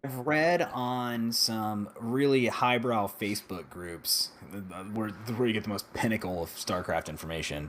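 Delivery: slow, dry mock praise; sarcastic. Real, not acted. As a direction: drag it out with sarcasm. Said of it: "I feel like this is extreme sarcasm".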